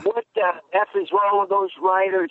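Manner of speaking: mild mock distress; upset dad. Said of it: "he was so upset".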